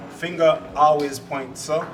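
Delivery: slow, measured Jamaican saying; deliberate Jamaican model for others to copy; Jamaican proverb. Shown as a demonstration. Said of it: "I give a Jamaican proverb".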